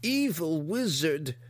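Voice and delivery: high, slow monster growl of words; grotesque monster voice. Acted. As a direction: drag out evil wizard. Hookar names the wizard.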